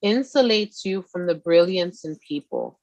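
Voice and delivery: reading a card. Acted. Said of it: "It says".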